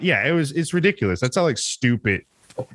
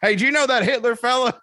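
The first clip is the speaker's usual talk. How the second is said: mock redneck cop; 14 semitones higher than usual. Mocking Southern cops questioning the German exec, in a high hammed-up hick voice. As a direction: ham up a clueless hick.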